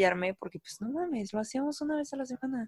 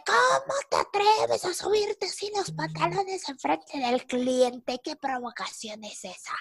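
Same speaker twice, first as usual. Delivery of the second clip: drawn-out high opening, falling to a hushed finish; soap-opera outrage; 5 semitones higher, slower than usual. Retold or imitated. Boss scolding employee over her trousers, telenovela outrage. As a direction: play a scandalized boss, melodramatic and hammed up. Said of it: "era como de novela".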